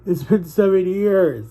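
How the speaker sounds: emotional. Real, not acted. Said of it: "Why am I getting emotional still?".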